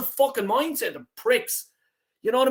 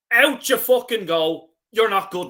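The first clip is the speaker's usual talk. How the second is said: angry shout; 4 dB louder than usual. Real, not acted. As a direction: spell out each word as you throw him out. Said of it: "I might go on a rant".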